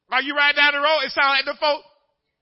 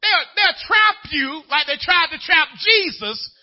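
loud shouted sermon, slower at the peaks; full-force preaching; 8 semitones higher, 10 dB louder than usual. Acted. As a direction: preach it to the back of the church.

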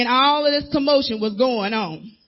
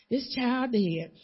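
flat doubting; 2 semitones lower, 7 dB quieter, much slower than usual. Retold or imitated. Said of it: "doubters retold".

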